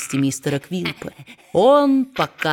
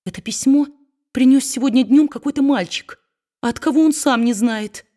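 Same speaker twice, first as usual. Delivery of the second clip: trembling; 6 semitones higher than usual. A narrator's reading. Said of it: "дрожа всем телом".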